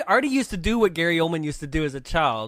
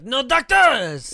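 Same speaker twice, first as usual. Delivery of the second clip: slow, louder, higher angry bark of No doctors; mad refusal; 7 semitones higher, 8 dB louder, slower than usual. Retold or imitated. Retelling the film to her co-host, mock furious refusal. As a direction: snap it like a stubborn man refusing help. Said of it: "he gets so mad".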